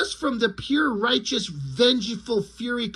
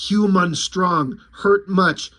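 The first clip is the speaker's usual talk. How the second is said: slow, broken caveman-like alien voice; a hint of a dim alien, slow and choppy; alien lizard speech; 3 semitones lower, slower than usual. Alien lizard questioning the human, slow and broken. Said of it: "they're like".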